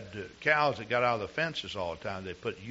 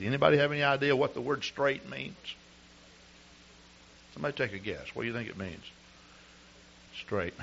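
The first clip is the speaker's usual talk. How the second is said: ice in mouth; 3 semitones higher, 4 dB louder than usual. Real, not acted. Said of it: "I got an ice cube in my mouth".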